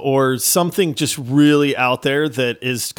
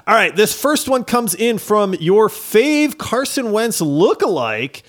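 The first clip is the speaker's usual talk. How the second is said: animated read-aloud with swooping pitch; review read-out; 4 semitones higher than usual. Real, not acted. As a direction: read it out like an ad pitch, punching key words. Reads a listener review aloud.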